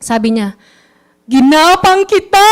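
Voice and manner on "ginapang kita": mother's scolding. Retold or imitated. Speaker imitates his mother scolding him for joining Usana. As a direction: imitate mom snapping at her child. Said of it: "Ganyan, nanay ko".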